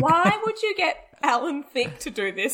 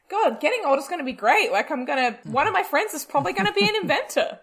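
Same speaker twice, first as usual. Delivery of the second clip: excited; 6 semitones higher, faster than usual. Retold or imitated. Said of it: "I just was like".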